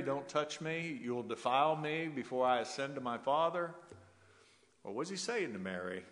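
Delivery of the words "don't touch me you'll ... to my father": "Don't touch me" pushed higher and louder, a sharp warning; stern rebuke. Retold or imitated. Preacher voicing the wrong reading of Jesus to Mary, raised stern warning. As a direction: voice the harsh reading, "defile" leaned on hard.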